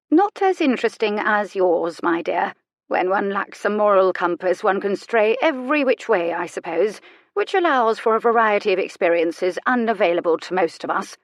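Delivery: lightly voiced needling dowager; a hint of arch aristocratic disdain; sardonic old lady. Elderly lady needles her visitor.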